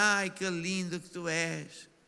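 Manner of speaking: slow, gentle, tender, meek motherly voice. Describing how a mother talks to her baby, imitating a mother's soft voice. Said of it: "com uma voz assim mansinha".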